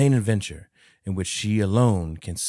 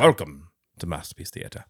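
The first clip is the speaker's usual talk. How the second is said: lower, mock-British TV host accent; Masterpiece Theater accent; 4 semitones lower than usual. Host demonstrating for his co-host, Masterpiece Theater accent. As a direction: welcome viewers in a put-on British accent. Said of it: "it's just my Masterpiece Theater accent".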